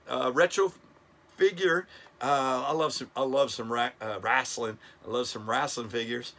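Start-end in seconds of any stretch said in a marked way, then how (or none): 4.2-5.9 "wrestling" said as RASS-lin; folksy "rasslin". Real, not acted. Collector shares his love of figures, "wrestling" said RASS-lin. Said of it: "that word wrestling".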